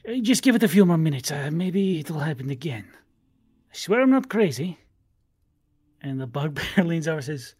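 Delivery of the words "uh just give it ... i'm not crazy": lightly voiced, pleading tabaxi; insistent tabaxi. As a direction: beg for patience as a catfolk sailor.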